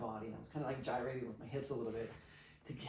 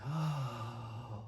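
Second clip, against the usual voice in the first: imitated sigh; 4 semitones lower than usual. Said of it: "releases herself".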